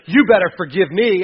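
bossy, loud demand. Retold or imitated. Churchgoer loudly demanding forgiveness, indignant. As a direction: insist someone forgive you, loudly. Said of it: "We're like".

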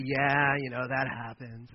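soft, slow dismissive shrug; mock nonchalance, trailing away; blowing it off. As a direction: brush it off casually. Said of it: "just blow it off and say".

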